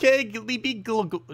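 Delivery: high, slow voice tryout; bad female voice. Second try at the sister, badly faked female. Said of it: "I'm so bad with female voices".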